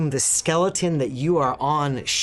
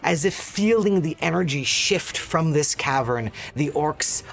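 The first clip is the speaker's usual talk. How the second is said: epic narration. A narrator's reading. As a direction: narrate the victory, winding down. GM narrates the victory.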